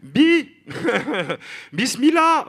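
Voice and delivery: strained, escalating attempts at bismillah. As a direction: fumble the word, rising to a squeak.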